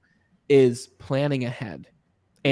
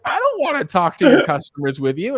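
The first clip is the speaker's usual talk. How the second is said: mock reluctant refusal; 6 semitones higher, 4 dB louder than usual. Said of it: "And I'm like".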